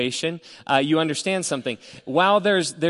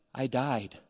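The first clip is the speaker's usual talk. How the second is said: soft dazed mumble, much softer; mumbling; 2 semitones lower, 9 dB quieter than usual. Retold or imitated. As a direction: murmur it as if half conscious. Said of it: "she's trying to mumble something".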